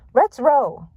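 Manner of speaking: high, loud cartoon dog bark; Scooby. A narrator's reading. Scooby springing into action, high barked words. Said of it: "Scooby barked".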